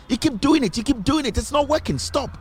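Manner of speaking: high-pitched exasperated scolding aimed at the attackers. Acted. Scolds Facebook attackers directly.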